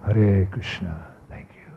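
slow, low, softly fading; hushed, low gratitude trailing away; tender reply. Retold or imitated. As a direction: answer gently and slowly as a revered teacher. Guru's tender reply, acted out.

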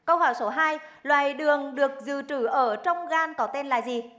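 crisp quiz host read; game show host. Acted. Host reads quiz question.

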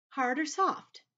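high, lilting spider voice; kindly Miss Spider. Acted. Miss Spider asking James about his bed, high-voiced. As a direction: ask it in a high lilt.

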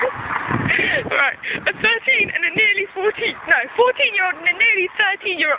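high, dramatic voice-over, tongue in cheek; mock documentary narrator. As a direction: announce it like a spooky documentary.

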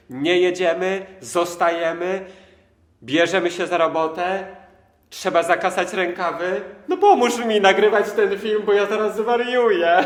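loud, high, bursting with joy; so happy you could burst; euphoric. Real, not acted. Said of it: "pełen euforii".

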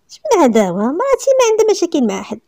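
high, loud indignant retort. A narrator's reading. Worried husband to the inspector, indignant retort. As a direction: snap back in offended disbelief. Husband answers police angrily.

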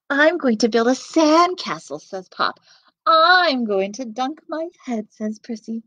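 lively storybook reading voice; reading to children. Acted. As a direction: read it to little kids. Reads picture book to children.

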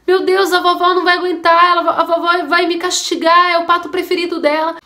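put-on a scared kid who just broke grandma's favourite thing; frantic little voice; desperate child. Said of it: "a criança ficou desesperada".

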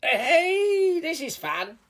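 high, squealing troll laugh into words; gleeful troll. A narrator's reading. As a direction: squeal with naughty enjoyment. Troll enjoys his rampage.

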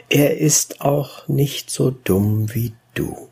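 measured, lively verse reading; expressive poetry reading with deliberate phrasing; poem recitation. A narrator's reading. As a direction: recite rhymed verse as a teasing warning. Recites chorus of old men.

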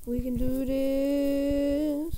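mock confident. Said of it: "I was like".

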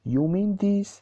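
"you mean this" as a high-pitched question. A narrator's reading. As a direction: ask "you mean this" in a clearly lifted pitch. Father's question in story read aloud. (با لحن پرسشی و زیر)

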